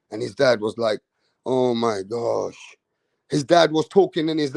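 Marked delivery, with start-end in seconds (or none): 1.4-2.8 imitating dad's dismay. Dad's dismayed reaction, retold.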